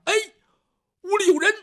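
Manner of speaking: 一嗓子高声喊出来; 猛然发觉有人，大声惊叫. Acted. 听见屋里桌子响. (听见响动高声惊呼)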